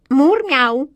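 high, loud mock meow; good-natured cat purr. A narrator's reading. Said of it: "добродушно промурлыкала кошка". (кошка добродушно мурлычет)

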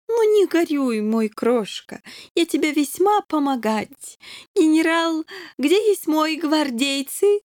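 a whimsical king questioning the kitten; accented king interrogating. A narrator's reading.

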